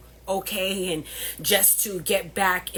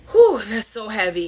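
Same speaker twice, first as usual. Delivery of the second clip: heavy sigh; 4 semitones higher, 10 dB louder than usual. Real, not acted. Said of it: "I'm still very, very emotional".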